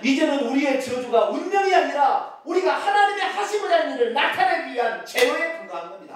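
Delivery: usual speaking voice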